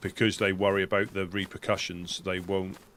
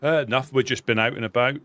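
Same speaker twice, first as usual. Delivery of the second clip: character voice; 4 semitones higher, 8 dB louder, faster than usual. Acted. Talking to a character.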